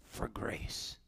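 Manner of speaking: hushed whisper, the verse fading out. Real, not acted. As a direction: breathe the last words. Closing verse falls to whisper.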